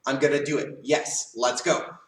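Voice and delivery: willing, ready to go; eager agreement. Shown as a demonstration. Child answering parents' request, eager agreement. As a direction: agree with some get-up-and-go. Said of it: "Kind of like".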